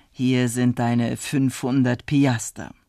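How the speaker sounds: slow, composed handover; calm. Acted. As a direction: pronounce it evenly and unhurriedly. Calm judge hands over the money.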